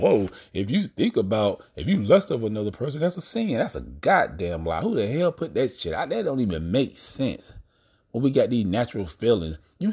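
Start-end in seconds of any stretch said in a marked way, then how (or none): 0.0-3.5 lightly mocking preacher, pitch jumping up high on sin; a hint of mocking sermon; mocking preachy quote. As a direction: parody a church warning, voice rising on sin. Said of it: "They used to talk about in the Bible".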